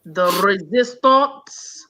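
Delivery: slow, rolled mock German accent; lightly put-on German accent. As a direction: roll the word resistance out in a German accent. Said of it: "like a kind of a German accent".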